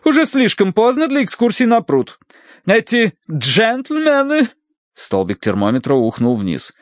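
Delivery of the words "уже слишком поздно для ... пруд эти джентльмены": haughty matron, disapproving. Acted. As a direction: forbid it with icy emphasis. Mrs. Mering's figure in narrated story. (властная дама, высоким голосом)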